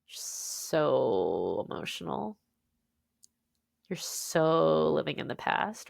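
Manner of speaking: slow, low, drawn-out mocking; mock dismissive family. Imitating family dismissing her feelings, slow and low. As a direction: drag it out like a family brushing off her pain. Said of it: "They just said it like".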